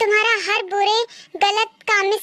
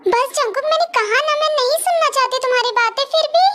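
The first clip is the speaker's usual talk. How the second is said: higher-pitched, exasperated cutting-off; upset refusal; 5 semitones higher than usual. Acted. Woman refusing to hear him out, exasperated. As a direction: shut them down, voice rising.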